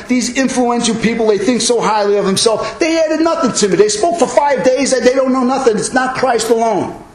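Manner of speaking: biting pulpit sarcasm, easing at the end; sarcastic Paul. Acted. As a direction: dismiss them with high, emphatic sarcasm. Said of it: "Paul is totally using sarcasm here".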